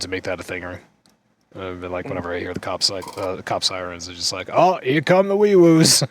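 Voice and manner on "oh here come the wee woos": high, loud singling-out call; mock siren announcement. Host reenacting his reaction to cop sirens, playful high call.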